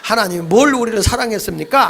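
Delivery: mock defiant protest; insolent challenge. Israelites talking back to God without manners, insolent. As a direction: talk back with a touch of cheek. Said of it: "싸가지 없이 대든 거예요".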